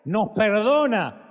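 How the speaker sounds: impassioned preaching with soaring aleluyas; Spanish altar-call preaching, pleading and fervent. Acted. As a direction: pray over the congregation, rising and falling. Preacher leading altar call prayer.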